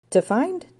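high, rising questioning echo. A narrator's reading. Ranger echoes again.

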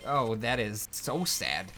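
slow, flat-voiced mock pity; slow deadpan sorry-for-you; deadpan sympathy. Real, not acted. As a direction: drag it out with fake sympathy. Deadpan reply to bad news.

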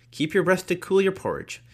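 high put-on voice for the old saying; quoted saying. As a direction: lift the proverb into a sing-song quote. Quoting a saying in character.

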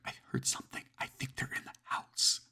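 hushed breathy whisper, slowing down. Acted. Hiding caller to the dispatcher, whispering. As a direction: whisper so the intruder can't hear. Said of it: "whispering".

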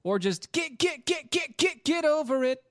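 high, rising squeal; squeaky high voice. Acted. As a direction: stammer it out in a squeak. Mocking, stuttering high squeal.

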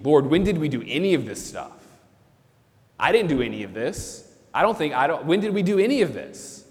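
mild surprised questioning; not believing they earned it; humble disbelief. Acted. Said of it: "didn't think they deserved".

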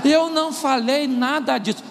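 slow, high-pitched incredulous denial; feigned disbelief. Acted. Husband denies to his wife what he said, feigned disbelief. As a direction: draw it out, shocked at the accusation. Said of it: "Ele é um dissimulado".

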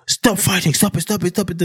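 mock teacher breaking up a fight; imitated panicked teachers. Acting out teachers rushing in.

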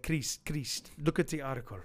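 put-on a light Palestinian accent on a shop owner calling out; a hint of Palestinian accent, calling his friend over. Palestinian accent as a store owner points to the article. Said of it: "Is that your Palestinian accent?".

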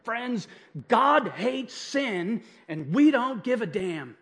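slow, emphatic re-enacted pulpit delivery; worked-up preaching. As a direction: preach it worked up, drawing out the words. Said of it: "I was a little worked up".

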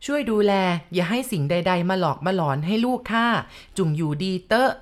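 spoken aloud. Retold or imitated. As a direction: intone the plea deliberately so the spirits hear. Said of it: "แล้วก็พูดดังๆ".

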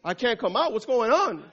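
high, loud, laughing alarm; trapped fly panicking over missing food smells. Acted. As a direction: fret about the missing smells. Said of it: "And the fly said".

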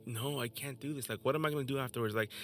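retold tearful plea. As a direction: relive the breakdown, from a hush to a desperate cry. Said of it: "I started bawling, just like".

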